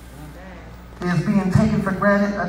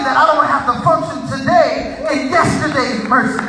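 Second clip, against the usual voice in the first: preaching; 4 semitones higher, 4 dB louder than usual. Real, not acted. Preaches at full force.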